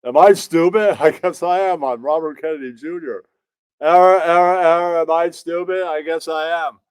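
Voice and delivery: lightly voiced robotic dim politician; a hint of a malfunctioning robot; mocking Robert Kennedy Junior. Robert Kennedy Junior to his mirror, lightly mocked. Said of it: "look in the mirror every day and go".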